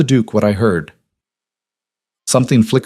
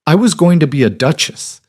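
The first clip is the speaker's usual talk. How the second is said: raised, higher-pitched indignant outburst; rising indignation; 7 semitones higher than usual. A narrator's reading. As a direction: let your voice rise in wounded outrage. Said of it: "Vivian's voice rose".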